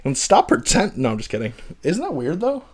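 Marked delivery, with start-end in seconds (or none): 0.0-1.0 loud, hammed-up scolding; playful indignant rant; mock outrage. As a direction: send him packing in mock anger. Mock tirade at British actor.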